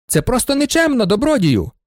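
high, shrieking complaint; indignant shout. Acted. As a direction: protest up high at the assistant. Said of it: "кричав він".

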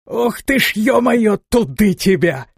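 sudden high pained yelp; stifled cry. Acted. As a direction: yelp out, hit by a stone. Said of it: "Раздался сдавленный крик".

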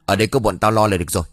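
put-on parent driving the kids home, shouting; angry shout. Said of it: "một phụ huynh cũng quát". (quát to, gắt gỏng)

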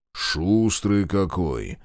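slow, good-natured bass rumble; friendly monster voice. Acted. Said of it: "добродушно пробасил Павленко".

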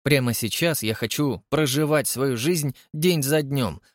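ordinary delivery, nothing marked

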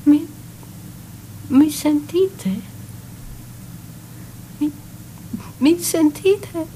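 calling out. Acted. Calling out to unseen visitors.

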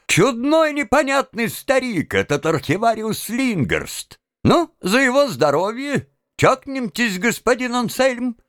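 high-pitched hearty toast; loud exclamation. A narrator's reading. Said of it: "воскликнул очень громко". (громкий возглас)

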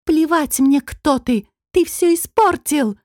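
high, loud furious yell. Acted. Нетали screams at the demon holding her, high and loud. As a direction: bellow it at him with no grace. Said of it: "Совсем неизящно проорала нежная Нетали".

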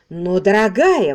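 loud, drawn-out appeal; exclaiming. Acted. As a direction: protest with concern. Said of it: "воскликнул Космо".

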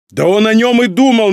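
loud, high-pitched angry outburst; losing patience. A narrator's reading. Son snapping at his father the emperor, losing patience. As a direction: burst out as if you can't hold back. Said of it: "не выдержал Нарухито".

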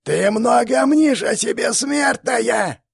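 very high, loud, slow shriek; shrieking monster. Acted. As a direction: screech it spitting with rage. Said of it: "завизжала брыжа слюной жердяйка".

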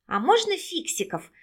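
light up asking for cartoons; joyful ask. A narrator's reading. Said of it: "радостно спросил Егорка".

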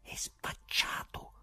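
slow, hushed, merciless verdict; quiet, ruthless drawl; pitiless low voice. A narrator's reading. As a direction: pronounce it slowly and softly, without pity. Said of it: "Una bassa disse spietata".

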